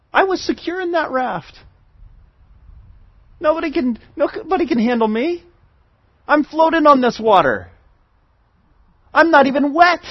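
a hint of a boastful kid, nothing can touch me; smug child. Preacher voicing his overconfident younger self, lightly smug.

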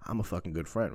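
ordinary talk

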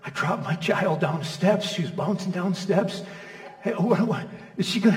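new father calling the doctor, hammed-up panic; panicked call. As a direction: replay a frightened dad phoning the pediatrician. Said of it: "I'm going like".

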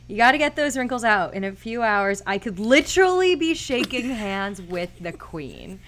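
imitated agitated outburst. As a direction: rattle it off, a bit worked up. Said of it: "a very agitated Jake Gyllenhaal".

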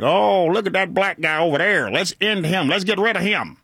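lightly exaggerated country accent; mock country accent. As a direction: imitate a Klansman's country twang, playfully. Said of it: "talk with a country accent".

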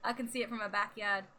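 put-on accidental New York accent; dropped-R New York "backyard". Joking about living close to Canada, slipping into New York accent. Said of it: "why I sounded like that".

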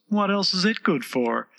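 high-pitched, mannered flower voice; prim Rose voice. A narrator's reading. The Rose explains manners to Alice, prim and high. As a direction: lecture primly, pitched high. Rose's voice in the story.

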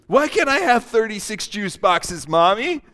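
put-on pleading kid voice; whiny child. Child begging mommy for juice, whiny. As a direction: beg like a spoiled child.

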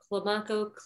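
Climaco said kluh-MAH-koh; pronunciation demo. Shown as a demonstration. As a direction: open "ah" in the stressed middle of Climaco. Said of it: "See what I mean?".

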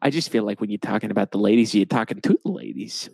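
put-on light Boston accent talking up the ladies. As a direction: keep the Boston accent going. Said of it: "Boston accents".

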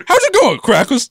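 a jokey imitation of an Asian character's accent, jumping high; hammed-up Asian accent greeting; put-on Asian accent. Joking with friends, a mock Asian accent. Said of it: "some Asian character".

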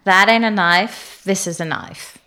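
casual Australian accent, not over-enunciated; understated Australian accent. Shown as a demonstration. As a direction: deliver it in an easygoing Australian accent, slowing on the first line then softening. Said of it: "say it in an Australian accent".

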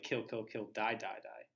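soft soundtrack whisper. Retold or imitated. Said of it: "It sounds like".

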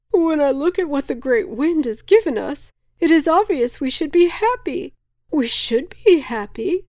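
high, loud, building bewildered outburst; baffled gentleman. A narrator's reading. Baffled gentleman addresses the cave, high rising distress. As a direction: climb to a miserable cry. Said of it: "red-faced, baffled-looking, beady-eyed gentleman".

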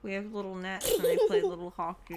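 talking with cheeks squeezed; squished cheeks. Real, not acted. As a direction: speak through squeezed cheeks. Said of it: "Can you stop squeezing my face?".

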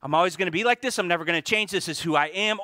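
lightly mocking hopeless voice; mock defeated thought. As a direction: throw the lie back at them. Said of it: "God says".

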